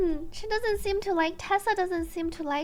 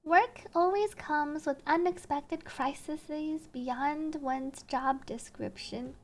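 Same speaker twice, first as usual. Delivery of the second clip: slow, measured storytelling read; story narration; 5 semitones lower, 3 dB quieter than usual. A narrator's reading. Narrator tells of fleeing the enraged director, measured narration.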